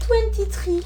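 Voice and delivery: "Twenty-three" blurted loud and high in English; "Twenty-three" shouted out in English; English correction. Real, not acted. She corrects herself, blurting the English name out loud. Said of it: "Désolé, twenty-three Glam".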